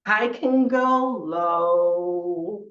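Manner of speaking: loud, very slow, "low" stretched out low. Shown as a demonstration. Teacher showing opposites with a scarf, low. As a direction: drop "low" down and hold it long. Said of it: "I can do opposites".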